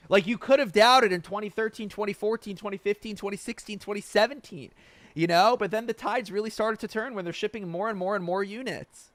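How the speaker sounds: worked up over the Tesla doubters; fired up. Real, not acted. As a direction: ramp up with each year, all worked up. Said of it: "get so fired up about this".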